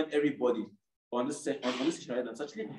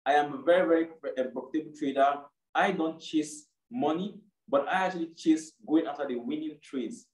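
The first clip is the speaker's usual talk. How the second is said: reciting a creed. Shown as a demonstration. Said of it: "It was more like".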